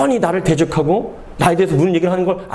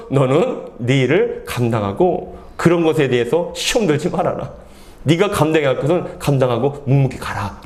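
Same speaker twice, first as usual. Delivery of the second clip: God's instruction; 5 semitones lower than usual. Acted. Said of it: "하나님께서 뭐라고 말씀하시냐면은".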